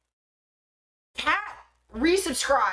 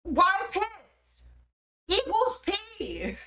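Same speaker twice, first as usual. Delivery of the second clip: imitating the TTS; 7 semitones higher, much slower than usual. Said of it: "That's what it sounds like".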